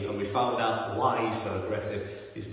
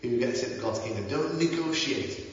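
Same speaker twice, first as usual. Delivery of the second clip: lilting Welsh voice, slowing on the repeat; Welsh accent; 4 semitones higher than usual. Retold or imitated. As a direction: quote him in a Welsh accent. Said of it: "he says this in a Welsh accent".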